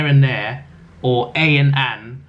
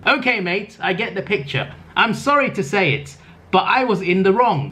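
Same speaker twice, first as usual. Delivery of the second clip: mock whiny reading; 6 semitones higher than usual.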